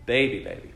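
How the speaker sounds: put-on "baby baby" with a falling, emphatic second word; emphatic doubling. Shown as a demonstration. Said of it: "It's an emphatic".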